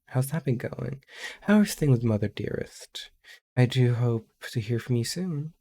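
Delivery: put-on very old man. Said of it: "The old man voice is on top".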